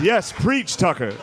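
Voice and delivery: black church congregant. Retold or imitated. Dad watching Fox as if in church, mock congregant. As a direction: cheer on the sermon from the pew. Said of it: "basically black church for old white dudes".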